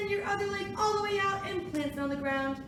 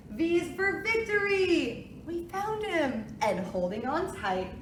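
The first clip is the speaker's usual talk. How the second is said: sing-song picture book reading; reading to a toddler; 5 semitones lower than usual. Acted. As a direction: read it gently to little kids. Reads alphabet book aloud.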